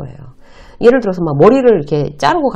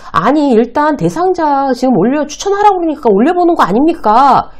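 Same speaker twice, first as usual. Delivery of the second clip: timid reply; 7 semitones higher, 4 dB louder than usual. Retold or imitated. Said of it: "이 정도로 소극적으로 반응했던 것 같아요".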